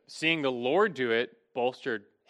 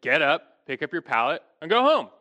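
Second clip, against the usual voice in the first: retold order, louder at start and end; commanding; 5 dB louder than usual. Jesus to a paralytic, commanding. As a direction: quote a firm command, rising on the last part. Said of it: "Jesus commanded".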